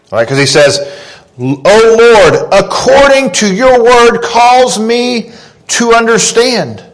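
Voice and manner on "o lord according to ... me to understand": prayerful plea. Acted. Quoting the psalmist's prayer.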